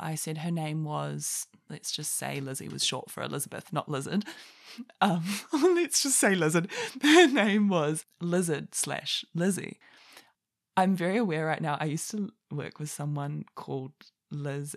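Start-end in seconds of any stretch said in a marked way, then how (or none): 5.0-9.8 louder, giggling through the words; laughing. Real, not acted. Laughing at her own typo about a name. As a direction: let the laugh spill over every word.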